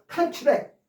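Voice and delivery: 컨트랙 with the first syllable punched; stress on first syllable. Shown as a demonstration. Teacher showing the noun form, 컨트랙 stressed on the first syllable. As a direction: say 컨트랙 as CON-tract, stress up front. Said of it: "앞에 강세에 있어서".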